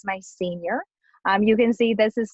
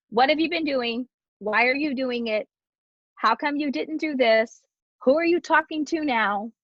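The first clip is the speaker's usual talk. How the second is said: higher, rapid-fire parental questioning; interrogating parent; 4 semitones higher than usual. Retold or imitated. Mom grilling her child with questions, interrogating tone. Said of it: "It is not interrogating".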